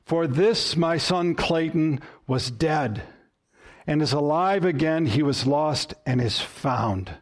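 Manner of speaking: gentle, heartfelt slowing; personal and tender. Shown as a demonstration. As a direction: say it as if about your own son. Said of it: "Try this".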